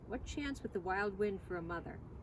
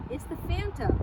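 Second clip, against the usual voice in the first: excited; 9 semitones higher, 6 dB louder than usual. Acted. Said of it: "Why didn't he say".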